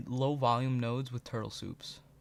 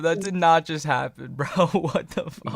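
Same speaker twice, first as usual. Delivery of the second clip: laughing in disbelief; stunned laugh, then what the fuck; shocked laughter; 3 semitones higher, 5 dB louder than usual. Real, not acted. Shock at perfect trade.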